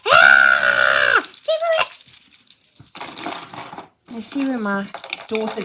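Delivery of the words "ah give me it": loud, grabbing monster shout; playful mock monster yell for a toy; alien skeleton. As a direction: growl and grab like a greedy skeleton. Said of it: "the alien skeleton going".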